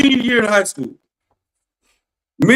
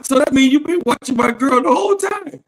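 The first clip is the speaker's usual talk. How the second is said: retold accusing shout; 3 semitones higher than usual. Retold confronting his former friend.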